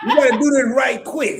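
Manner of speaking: laughing while imitating a Southern saying; chuckling through a homespun Southern phrase; laughing quote. Quoting Kizzy's saying to the host, laughing.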